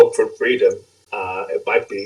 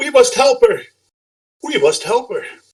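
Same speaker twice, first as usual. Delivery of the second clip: shrill, very high shouted cry. Narrating a story, voicing the dog as it shouts out. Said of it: "The dog shouts out".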